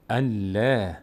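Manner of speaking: "الله" with a thin, clear L and fronted "ae"; light Allah. Shown as a demonstration. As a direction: say "الله" thin, mouth opening sideways. («الله» نازک و باریک، دهان از پهلو باز)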